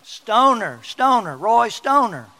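a mock shout of Roy Stoner, high and loud; exasperated shouting. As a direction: yell the name down the phone, hammed up. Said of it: "And he says".

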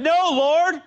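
high, loud pleading tempter voice; tempter whisper. Acted. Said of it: "Peter said".

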